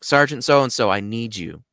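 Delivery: mildly urgent call for attention; speaking up. Retold or imitated. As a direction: raise the voice slightly on the sergeant's name. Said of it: "I can't just stay quiet".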